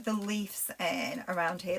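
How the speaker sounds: broad Lancashire, leaves said as "lifs"; slipping into Lancashire on "leaves" said as lifs; Lancashire accent. Real, not acted. Crafter on a live slips into her Lancashire accent. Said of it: "That's my Lancashire accent coming out".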